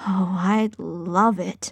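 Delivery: sighing contentedly. Just given a ring, a man answers, sighing contentedly. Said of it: "Cecil sighed".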